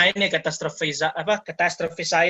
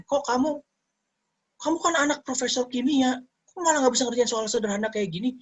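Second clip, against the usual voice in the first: high, scolding father voice mocking the child; scolding parent; 8 semitones higher than usual. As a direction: nag like a disappointed professor dad. Professor scolding his child. (meniru ayah profesor yang memarahi anak)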